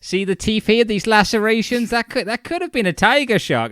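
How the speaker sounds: weird little expert. Retold or imitated. Imitating the weird little guy poking the surfer's shoulder, high and keen. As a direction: poke and pore over it like a geek. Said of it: "weird little guy just poking and going".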